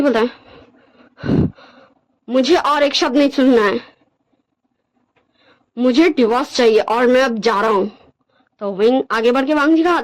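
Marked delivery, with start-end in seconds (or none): 2.3-7.9 measured, dismissive character voice; cold, rejecting Wangji. Acted. Wangji demands a divorce from Wing, cold and dismissive. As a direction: reject him firmly, with deliberate pauses.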